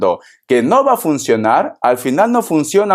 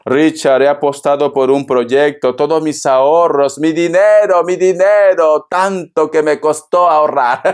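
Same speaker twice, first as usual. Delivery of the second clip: worried voice over lost savings; worried client. Retold or imitated. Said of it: "tienes dudas, inseguridades". (clienta preocupada por sus ahorros, voz algo más aguda)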